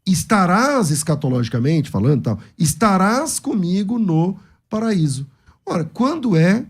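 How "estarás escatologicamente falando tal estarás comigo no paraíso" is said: slow, set-apart "estarás comigo no paraíso" after a pause. Shown as a demonstration. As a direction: start fresh on "Estarás" after the break. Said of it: "Aí eu dou a, a pausa". (lento, destacando "estarás" depois da pausa)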